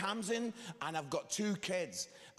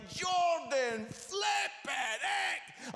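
high, loud dad scolding; exasperated shout; 11 semitones higher, 3 dB louder, much slower than usual. Retold or imitated. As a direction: explode at your son, voice leaping up. Exasperated dad scolds son going home.

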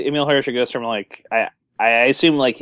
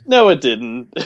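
real disbelief, long doubting no; doubtful; 3 dB louder, much slower than usual. Real, not acted. Co-host refusing to believe the underwear tale, doubtful. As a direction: contradict the storyteller sceptically. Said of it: "the doubt in the co-host's voice".

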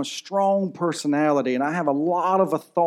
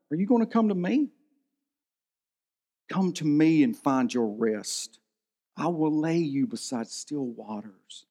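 gentle Jesus; 5 dB quieter than usual. Acted. Jesus voiced calling disciples.

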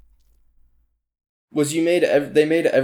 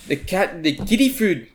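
put-on South African accent; 5 semitones higher than usual. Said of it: "That was a better one".

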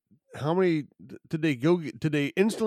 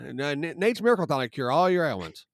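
snake oil seller; 4 semitones higher than usual. Pretend. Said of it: "turn into a vaudevillian".

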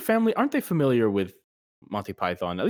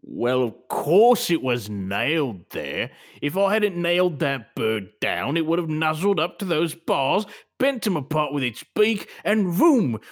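lightly acted pet shop owner, building to an outburst; defensive shopkeeper; 3 semitones higher, slower than usual. Shopkeeper excusing the nailed parrot, defensive role voice. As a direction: start drawn out, end on an excited burst.

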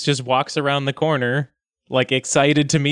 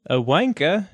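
testing an Australian pronunciation; Australian accent; 4 semitones higher than usual. Shown as a demonstration. Player tests a slang word, Australian accent. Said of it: "Nope, that's Australian".

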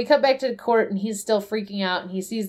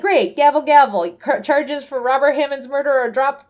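raised, louder mock court ruling; brisk judge; 4 semitones higher, 4 dB louder than usual. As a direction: punch out each gavel like a bang. Voices the judge banging the gavel.

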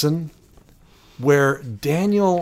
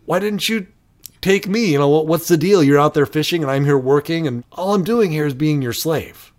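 imitating an indignant trainee, higher at first; mildly upset; 3 semitones higher than usual. Daniel complaining to his teacher about chores, mildly upset. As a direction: protest with a touch of exasperation. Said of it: "Daniel gets all upset".

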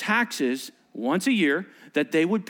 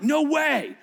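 higher, emphatic mock protest; defiant refusal; 8 semitones higher than usual. Pastor voicing the Pharisees refusing Rome, high and emphatic. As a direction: voice the Pharisees digging in their heels. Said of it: "the Pharisees were more like".

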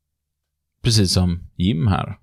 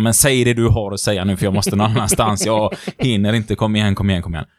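stressed impatience. Retold or imitated. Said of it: "är jättestressad och känner så här".

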